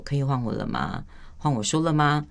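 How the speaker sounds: patient, composed request to speak; calm and steady. Shown as a demonstration. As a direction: ask evenly, without any edge. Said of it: "我既然语气这么平稳".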